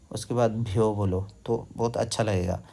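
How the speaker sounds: ordinary talk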